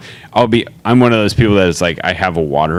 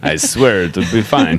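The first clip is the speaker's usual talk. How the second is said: put-on a slow, light Russian man accent; drawn-out reassurance in a half-hearted Russian accent; 2 semitones lower, slower than usual. Mocking the photographer in a slow, mild Russian accent. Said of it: "thirty old Russian man accent".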